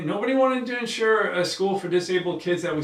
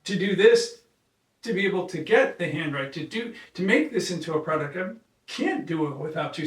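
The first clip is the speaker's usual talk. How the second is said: earnest plea; 4 semitones higher than usual. Retold or imitated. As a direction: plead with her, pitched up and pressing. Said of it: "I said".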